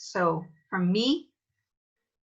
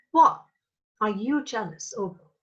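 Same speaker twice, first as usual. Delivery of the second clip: mock shocked; 2 semitones higher than usual. Shown as a demonstration. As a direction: scoff at Oberon in disbelief. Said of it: "acting Titania's jealousy".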